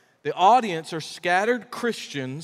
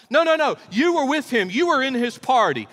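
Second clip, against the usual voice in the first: higher and louder insistent accuser; accusing girl; 8 semitones higher, 6 dB louder than usual. Retold or imitated. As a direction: pin him down, you know it's him. Servant girl accusing Peter.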